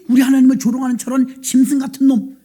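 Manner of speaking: mildly angry outburst; acted indignation. David hearing his God mocked, mildly indignant. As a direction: let a touch of outrage rise. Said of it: "막 분이 난 거예요".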